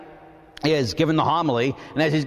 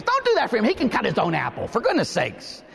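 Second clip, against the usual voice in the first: mock-indignant inner voice; 6 semitones higher than usual. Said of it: "I didn't say this".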